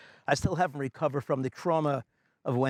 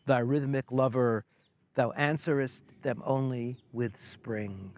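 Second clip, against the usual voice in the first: measured poetry reading, pausing between phrases; poem recitation; slower than usual. Acted. Poet opens National Poetry Month with another writer's poem, measured recitation. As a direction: recite it with deliberate phrasing, slowing into the last line.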